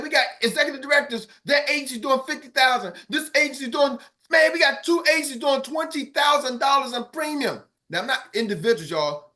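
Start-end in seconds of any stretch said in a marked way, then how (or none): 0.0-7.6 excited boss. Retold or imitated. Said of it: "He's like".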